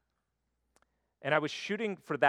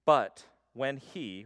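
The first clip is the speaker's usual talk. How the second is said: But slow and punched, louder; stress on But; 5 dB louder, much slower than usual. Shown as a demonstration. Preacher reading Paul, leaning slowly on But. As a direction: lean hard on the word But. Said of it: "the but comes in here".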